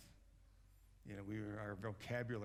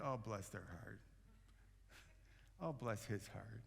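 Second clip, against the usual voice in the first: sugary mock pity; 4 dB quieter than usual. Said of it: "it comes with a smile".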